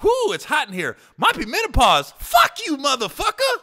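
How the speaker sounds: high, loud, fast replay of both voices; rapid replay of exchange. Retold or imitated. Retelling the quick club exchange, high, loud and laughing. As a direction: rattle off the whole exchange. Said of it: "It was like".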